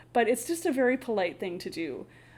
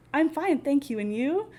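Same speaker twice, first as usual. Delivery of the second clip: students' textbook reply; 4 semitones higher than usual. Retold or imitated. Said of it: "So I would say".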